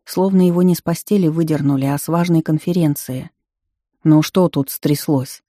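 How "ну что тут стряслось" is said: put-on creaky old man. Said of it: "проскрипел старик".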